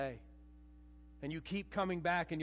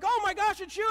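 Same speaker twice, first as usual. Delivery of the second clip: much higher, loud astonished gasp of recognition; stunned disciples; 9 dB louder than usual. Retold or imitated. Disciples meeting the risen Jesus, loud stunned surprise. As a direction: act like you've just seen a ghost. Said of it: "and they're like".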